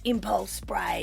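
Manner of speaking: breathy whisper of impulse spray. Real, not acted. Recalling childhood sprays, in a whisper. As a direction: whisper it like a secret.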